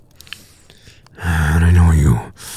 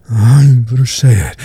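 raised demand; 5 semitones higher, 4 dB louder than usual. Acted.

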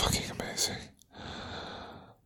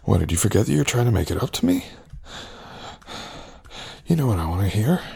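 sharp rebuke; 3 semitones higher, faster than usual. Acted. Sudden demanding rebuke.

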